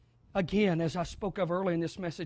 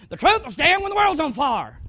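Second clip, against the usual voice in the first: Southern saying; 7 semitones higher, 8 dB louder than usual. Shown as a demonstration. Preacher quoting a saying he heard growing up in the South, light Southern accent. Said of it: "so this is how they say it".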